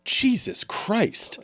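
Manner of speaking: slow, breathless whisper. Retold or imitated. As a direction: whisper in stunned horror. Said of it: "you see his partner go".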